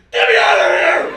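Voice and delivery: high, loud pleading dog voice; desperate dog shout. Acted. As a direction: shriek it like a caged dog begging.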